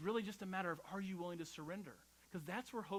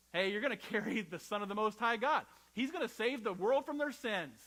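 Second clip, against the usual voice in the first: excited angel; 4 semitones higher, 8 dB louder than usual. Retold or imitated. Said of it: "The angel shows up, Gabriel".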